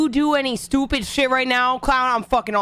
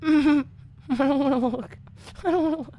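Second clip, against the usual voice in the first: scared; 5 semitones higher than usual. Real, not acted. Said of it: "I'm terrified".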